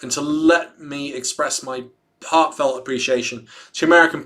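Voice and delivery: measured presidential address read aloud; formal read-aloud. Acted. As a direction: read it out like a statement to the nation. Reads a presidential statement aloud.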